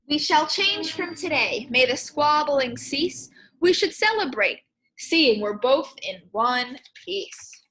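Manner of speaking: a hint of solemn resolve; lightly voiced grand squirrel. Squirrel vowing to his friend, lightly grand. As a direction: announce the pact like a pompous little squirrel.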